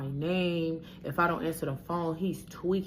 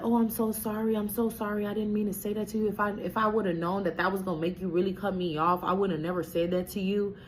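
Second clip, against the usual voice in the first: mock pleading, pitched higher; imitating his whiny apology; apologetic boyfriend; 4 semitones higher than usual. Boyfriend begging her forgiveness after the insult, mock pleading. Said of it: "And he's like".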